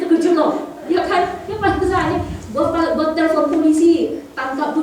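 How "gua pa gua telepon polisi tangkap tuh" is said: loud, high threat to call the police; angry threat. Retold or imitated. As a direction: yell the threat at the intruder. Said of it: "dia bilang". (teriakan ancaman yang marah)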